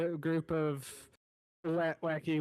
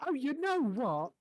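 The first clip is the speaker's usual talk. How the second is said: chef calling out; 4 semitones higher than usual. Acted. Chef, stumped, calls out to Melanie for help. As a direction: shout the question over to Melanie.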